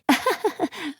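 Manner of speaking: light chuckle; a brief, amused little laugh; short laugh. Acted. Game host laughs between lines.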